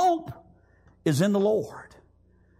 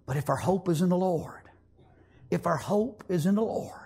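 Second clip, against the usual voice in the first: hushed, breathy whispered promise; 2 semitones lower, 3 dB quieter than usual. Acted. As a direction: whisper it like a secret hope. Whispered hope line.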